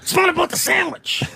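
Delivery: high-pitched yelled protest; furious yell back at her; shouting. Retold or imitated. Retold rant at wife in public.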